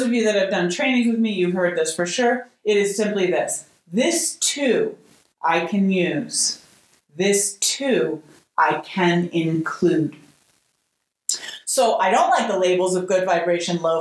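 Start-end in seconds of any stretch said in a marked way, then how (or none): 3.9-10.2 calm mantra. Shown as a demonstration. Offering students her phrase, slow gentle mantra. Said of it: "a little phrase that I like to use".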